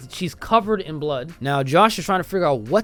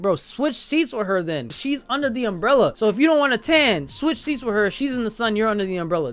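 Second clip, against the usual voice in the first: higher, mildly exasperated mock lecture; exasperated telling-off; 5 semitones higher than usual. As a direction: scold him like it's obvious. Acts out scolding Sergei.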